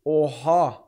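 ordinary delivery

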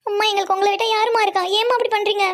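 crying reproach to a mother; tearful. Acted. Daughter asks mother why she does this, tearful. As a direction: plead with her through tears. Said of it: "அழுவாதீங்கடா மூணு பேரும்".

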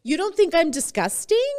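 ask, dreading the answer; a tearful, anxious plea; fearful question. Retold or imitated. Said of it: "I looked at her like".

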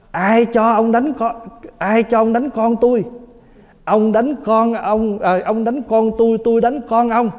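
a hammed-up outraged father; angry father. Father scolding the grandfather for hitting his son, mock indignant.

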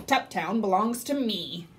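a hint of a smug snort; lightly voiced mean pig, claiming it flatly. Sir Percival taunting Pig Sticks, mild smug snort. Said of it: "he snorted".

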